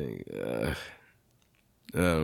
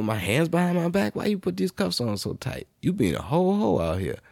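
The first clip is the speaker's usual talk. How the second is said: high whiny protest; 9 semitones higher than usual. Retold or imitated. Complaining about cuffs.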